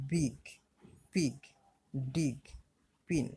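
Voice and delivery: বিগ, পিগ, ডিগ, পিন each with an "i" vowel; I pronounced "i". Shown as a demonstration. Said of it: "ই, যেরকম". (বিগ, পিগ, ডিগ, পিন-এ I-এর উচ্চারণ "ই")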